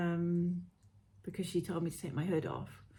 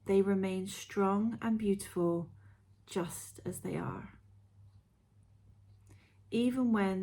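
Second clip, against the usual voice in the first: guided meditation. Acted. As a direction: read it like a gentle guided visualisation.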